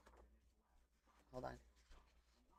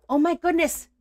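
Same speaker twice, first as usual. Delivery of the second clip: loud, high gasp of dismay; real shock at a ruined envelope; shocked exclamation; 11 semitones higher, 10 dB louder than usual. Real, not acted. Crafter discovering the cat's damage, loud shocked cry.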